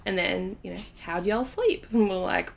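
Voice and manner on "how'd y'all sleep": put-on American y'all; lightly imitated American guest; American accent. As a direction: ask it in a playful American accent. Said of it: "That's my American accent".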